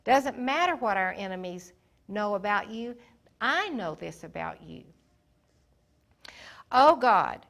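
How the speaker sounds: loud, desperate cry to God; king crying out to God against his enemies, loud; desperate prayer. Acted. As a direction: call out to God with everything you have. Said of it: "Jehoshaphat honored God and said".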